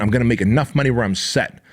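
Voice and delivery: quick, scornful mock quote. Host mocking a selfish listener, quick and scornful. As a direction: parrot it back to show how selfish it is. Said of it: "That's a really selfish statement".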